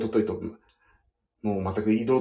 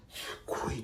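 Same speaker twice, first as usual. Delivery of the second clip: whisper; 16 dB quieter than usual. Retold or imitated. Coworker praising quietly, retold.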